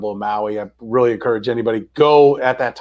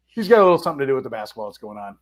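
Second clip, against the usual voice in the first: fast, knowing deadpan; dry sarcastic echo; much faster than usual. Retold or imitated. Echoing the waitress about the coach, wry and quick. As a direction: toss her words back with a wink.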